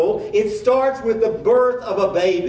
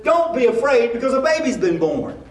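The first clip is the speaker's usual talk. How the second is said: angel announcing; 6 semitones higher, 3 dB louder than usual. Retold or imitated. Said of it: "this angel then says".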